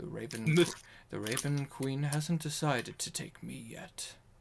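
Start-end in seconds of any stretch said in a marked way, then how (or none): 1.1-4.1 very faint, barely audible whisper. Voicing a wounded character who answers quietly: very faint whisper. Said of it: "you just hear a very faint whisper".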